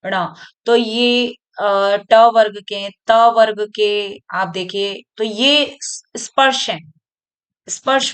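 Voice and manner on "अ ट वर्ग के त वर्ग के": slow emphatic listing. Shown as a demonstration. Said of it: "teacher stressing group names".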